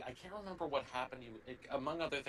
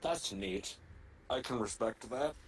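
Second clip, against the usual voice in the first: blocked nose. Real, not acted. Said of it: "Sorry for blowing my nose a lot".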